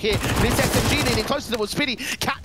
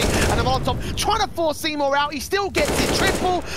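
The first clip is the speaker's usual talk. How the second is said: excited; 5 semitones higher than usual. Real, not acted. Rising call of a triple kill.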